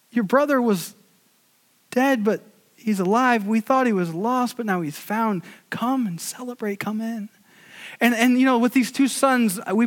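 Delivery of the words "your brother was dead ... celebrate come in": gentle father, fading. Retold or imitated. Father invites son to celebrate.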